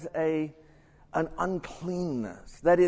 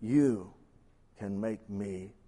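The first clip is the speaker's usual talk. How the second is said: kneeling leper's plea; 4 semitones lower, 6 dB louder, much slower than usual. Acted. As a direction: plead haltingly with long pauses, dropping low at the end. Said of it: "he states his perception".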